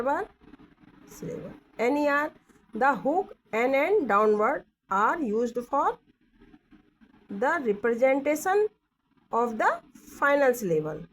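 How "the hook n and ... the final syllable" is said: reads the textbook rule slowly, word by word; slow reading aloud. Shown as a demonstration. Teacher slowly reads the rule to her class. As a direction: spell out each word slowly for students. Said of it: "क्या बोल रहे हैं?".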